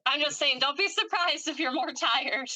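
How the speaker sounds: high, laughing clarification; playful protest breaking into laughter; amused insistence. Real, not acted. Teasing reply to tired client.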